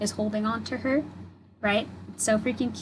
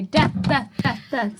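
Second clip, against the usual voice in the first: overjoyed; 4 semitones higher, 3 dB louder than usual. Real, not acted. Overwhelmed by favourite card.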